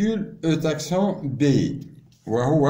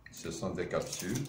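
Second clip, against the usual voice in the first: far off; 5 semitones lower, 9 dB quieter than usual. Real, not acted. Showing samples away from mic.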